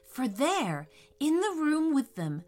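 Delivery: gentle bedtime story voice; storytelling narration. A narrator's reading. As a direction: read it like a children's story. Reads story to children.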